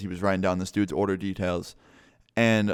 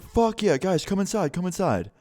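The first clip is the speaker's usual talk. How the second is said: put-on much higher, eager drunk bro; drunk dude; 9 semitones higher than usual. Hammered host invites cookie sellers inside, excited drunken voice. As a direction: imitate a hammered host waving everyone in. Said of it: "he's hammered at".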